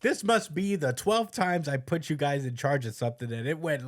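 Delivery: a touch of fed-up boss; mock exasperated yelling. Boss scolding employees put in charge, mock exasperated yell. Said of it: "yelling at hi-, her bum-ass employees".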